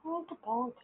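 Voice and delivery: high silly honk; silly clown. Pretend. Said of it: "Sadly honks".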